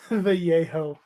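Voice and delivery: slow second try at "yayo", said yay-HO; drawn-out, unsure "yayo" with an h before the oh; tentative pronunciation attempt. Shown as a demonstration. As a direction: sound out "yayo" as yay-ho after a laugh. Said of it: "cannot ever seem to get it right".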